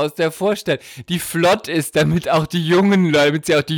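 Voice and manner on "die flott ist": normal talking voice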